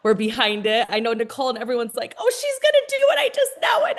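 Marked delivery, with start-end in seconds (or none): 2.2-4.0 high, fast mock squeal of excitement; quick, high-pitched gushing quote; excited supporters. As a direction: imitate thrilled teammates cheering someone on. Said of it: "they were just so excited".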